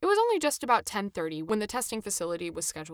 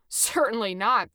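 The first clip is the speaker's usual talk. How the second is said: slow, dismissive scoff, a touch louder; 2 semitones higher, 5 dB louder, slower than usual. Acted. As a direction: brush the idea off slowly. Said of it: "the driver scoffed".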